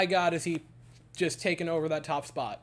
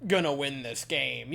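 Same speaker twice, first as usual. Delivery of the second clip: gloomy inner thought; 3 semitones lower, 3 dB louder, slower than usual. Retold or imitated. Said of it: "that, like".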